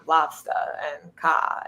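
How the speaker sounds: Boston accent, "lobster and car" with the R dropped, "lobstah and cah"; Boston R dropping. Shown as a demonstration. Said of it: "you just drop the R on every word you say".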